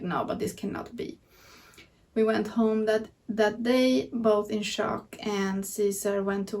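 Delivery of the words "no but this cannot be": whispered disbelief. Retold or imitated. Both in disbelief, we were like.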